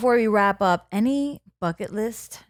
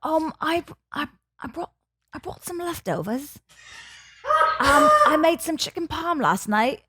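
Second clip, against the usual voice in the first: tentative attempt at a British accent; 4 semitones higher than usual. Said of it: "the British".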